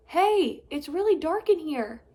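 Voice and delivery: loud, high call from inside; shout. Acted. Stanley shouting from inside the wreckage, loud. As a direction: shout out from the dark crack. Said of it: "they heard his shout".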